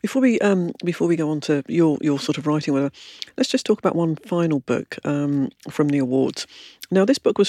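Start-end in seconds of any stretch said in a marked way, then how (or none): 0.0-2.9 mouth full. Real, not acted. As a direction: still chewing while talking. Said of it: "speaking with my mouth full".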